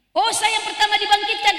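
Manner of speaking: high, loud astonished question; surprised cry. Acted. The Prophet, waking first, asks the angel in loud surprise. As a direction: shout it out in amazement.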